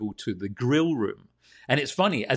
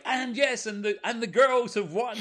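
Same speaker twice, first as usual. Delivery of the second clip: much higher, hammed-up game show announcement; excited winner announcement; 12 semitones higher than usual. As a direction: proclaim the winners in a high, excited mock presenter voice.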